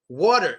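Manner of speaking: "water" said like "wadder"; flapped T. Shown as a demonstration. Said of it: "Water also gets the D sound".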